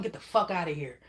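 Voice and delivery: firm, fairly even "Get the fuck outta here"; blunt dismissal. Pretend. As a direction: tell them off without raising the voice. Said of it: "Tell 'em".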